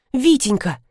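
a hint of sobbing, voice lifted; sobbing plea. Wife pleads tearfully with her husband, a touch of sobbing. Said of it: "всхлипнула Маргарита".

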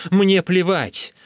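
high, loud, drawn-out defiance; heated, stretched-out dismissal; defiant outburst. A narrator's reading. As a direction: fling it back, slowly and loudly.

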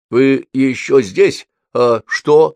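slow, puzzled and a bit annoyed; embarrassed and cross. A narrator's reading. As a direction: ask it half-embarrassed, half-irritated. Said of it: "смущённый и несколько сердитый". (смущённо и сердито)

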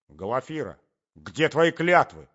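loud, drawn-out reproach; crying out. A narrator's reading. Young man grabs the lady's hand, crying out his reproach. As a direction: cry out slowly, rising to loud. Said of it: "вскричал молодой человек".

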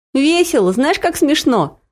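a light hint of a delighted child; joyful exclaim. A narrator's reading. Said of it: "радостно воскликнул сын".

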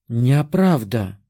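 slow, offended protest; indignant. A narrator's reading. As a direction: huff in protest. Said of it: "возмутилась она".

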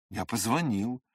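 ordinary delivery, nothing marked

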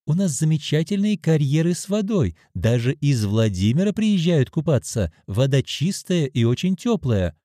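a hint of a chatty hotel clerk; receptionist.

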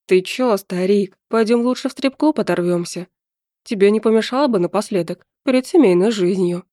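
put-on lightly slurred drunk buddy; a hint of tipsy slur. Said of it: "пьяным голосом проговорил Лёва".

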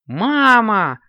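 high, loud call for mum; calling out together. A narrator's reading. Kittens calling to mum in the kitchen, high eager shout. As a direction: call out excitedly, voice shooting up. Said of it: "одновременно раздались голос Коржика".

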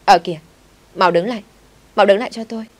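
furious shouting after a car; angry yell. A narrator's reading. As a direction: yell after him to stop. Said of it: "Cậu ta tức quá thì gào lên".

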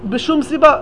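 ordinary talk, nothing marked

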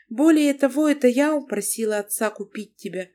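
taken aback, she scolds him; wife Lana. Acted. Narrator voices the wife Lana.

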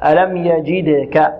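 slow ألم يجدك, the د bouncing with no vowel tilt; qalqalah on dal. Shown as a demonstration. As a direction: slowly recite ألم يجدك, echoing the د cleanly. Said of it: "والقلقلة في الدال قلنا هي اضطراب في المخرج". (تلاوة بطيئة بقلقلة الدال في يجدك)

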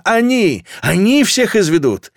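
high shrieked accusation; shrill-pitched cry of alarm; hysterical squeal. A narrator's reading. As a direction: screech it in panic. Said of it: "мужчина визжит или женщина".

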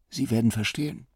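leise, rau angesetzt; heiser. Acted. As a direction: mit belegter Stimme abwehren. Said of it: "sagte Leo heiser". (Leo heiser und leise am Telefon)

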